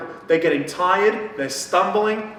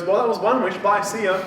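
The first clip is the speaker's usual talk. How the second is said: higher, louder mock brush-off; breezy goodbye; 5 semitones higher, 4 dB louder than usual. Wish granter leaving after one wish, breezy. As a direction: toss off a cheery imitation farewell. Imitating offhand departure.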